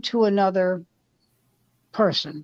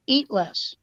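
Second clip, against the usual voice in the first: deadpan Newhart; 2 semitones higher than usual. Retold or imitated. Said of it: "And Bob said".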